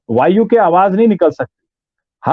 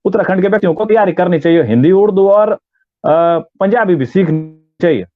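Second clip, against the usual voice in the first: Uttarakhandi accent. Shown as a demonstration. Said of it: "Uttarakhand का कोई व्यक्ति बोला हो".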